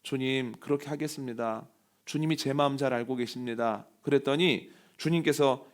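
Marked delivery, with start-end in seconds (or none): 0.0-3.9 lightly acted troubled disciple, softer; reply meekly with a touch of worry; subdued, mildly anxious assurance; worried reply. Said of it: "근심하는 마음이 들어서".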